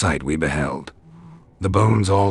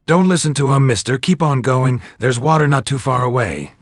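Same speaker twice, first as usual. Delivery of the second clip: put-on much higher, louder girl calling out; eerie little girl; 9 semitones higher, 4 dB louder than usual. A narrator's reading. Phantom girl urging Angel on through the bones. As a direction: call to him like a lost child.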